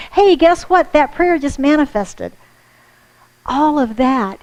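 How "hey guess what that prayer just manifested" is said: higher, louder, bursting with news; excited good news. Retold or imitated. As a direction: call out the answered prayer with joy.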